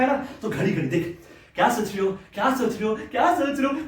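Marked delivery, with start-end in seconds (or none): 1.5-3.9 same question, pitch climbing with each repeat; mock-nag, more insistent every time; mimicked pestering. Mimicking girlfriend's repeated prying question.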